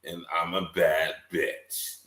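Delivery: slow, drawn-out sassy self-intro; lightly camp it up, slowing on bad bitch; mock sassy fifty voice. Friend mocking the rapper's line, slow and sassy. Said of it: "gonna sound just like that to me in my head".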